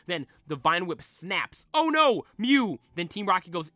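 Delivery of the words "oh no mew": high, loud alarmed cry; dismayed cry. Acted. Red seeing the Vine Whip snap, alarmed cry. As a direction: shout in dismay as Mew slips away.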